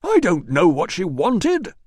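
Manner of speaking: high, slow, bitten-off snap; snapped retort. Acted. Manager snaps at Russo about the girl, high and curt. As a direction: snap back at the accusation. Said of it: "snapped Priscus".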